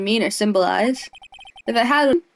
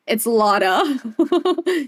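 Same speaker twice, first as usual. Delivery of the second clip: very slow "It's Lotta" stretched out through a laugh; laughing drawl; much slower than usual. Shown as a demonstration. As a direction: drag out "Lotta" while laughing.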